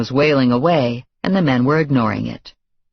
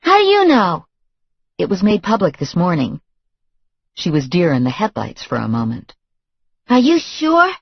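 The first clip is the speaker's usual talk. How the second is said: put-on stunned girlfriend; 5 semitones higher than usual. A narrator's reading. Girlfriend questioning the news, high and stunned. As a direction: still in disbelief.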